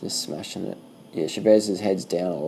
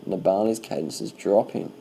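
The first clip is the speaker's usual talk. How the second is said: slow repeat. Real, not acted. Commentator repeating to himself as Nibali slows, slow and thoughtful. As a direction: repeat it slowly as it sinks in.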